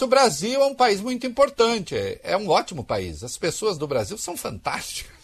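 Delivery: lightly put-on film dubber voice, lilting pitch; a hint of dubbed-movie voice; dubbing voice. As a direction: imitate a dubbed translation with swooping emphasis. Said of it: "eu fico imaginando uma voz de dublador".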